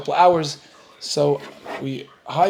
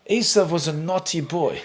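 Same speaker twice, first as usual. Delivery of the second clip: put-on British accent. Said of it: "they come home and said".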